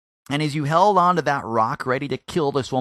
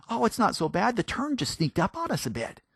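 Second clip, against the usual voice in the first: dismissive excuse; 9 semitones higher than usual. Retold or imitated. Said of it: "If it's me or you".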